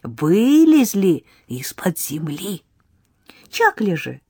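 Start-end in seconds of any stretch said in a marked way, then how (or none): 0.0-2.6 put-on high, slow wagging-finger girl voice; girl shaking a finger at Egor; scolding little girl. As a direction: scold him like a tiny teacher. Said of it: "Девочка погрозила пальцем".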